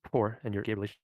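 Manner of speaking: choppy call connection; glitching audio. Real, not acted. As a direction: voice cutting in and out. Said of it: "Why do you keep cutting out?".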